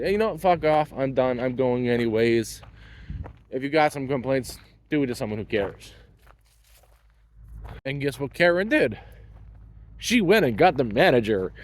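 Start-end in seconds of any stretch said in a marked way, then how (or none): 0.0-5.9 retold brush-off. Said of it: "but I said".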